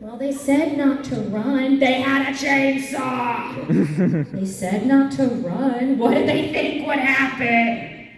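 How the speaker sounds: high, drawn-out mock protest; hammed-up indignant wail; exasperated wail. Mock wail defending her running.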